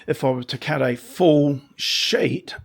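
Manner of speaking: hoarse, croaky throat. Real, not acted. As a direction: talk through a croaky throat. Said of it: "excuse the croaky voice".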